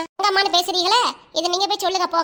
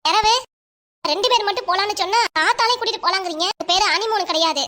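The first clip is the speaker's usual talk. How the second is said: irritated, slightly raised complaint; angry protest; 3 semitones higher than usual. Acted. Wife wanting a trip for two, angry protest to husband. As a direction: protest at being misunderstood, crossly. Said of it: "ஏன் இம்புட்டு கோவம் உனக்கு?".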